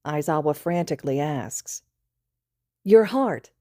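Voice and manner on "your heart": high, loud flirting; flirty wink. Acted. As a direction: toss it off with a wink. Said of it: "Midoriya winks".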